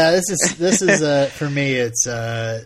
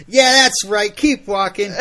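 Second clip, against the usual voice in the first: put-on loud, high drunken challenge; belligerent drunk; 8 semitones higher, 8 dB louder than usual. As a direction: pick a fight, drunk and loud. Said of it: "That was my drunk Fred".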